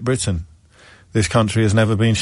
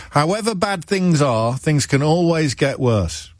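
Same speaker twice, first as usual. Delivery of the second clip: Manchester accent; 4 semitones higher than usual. Shown as a demonstration. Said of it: "a bit more Manchester than Yorkshire".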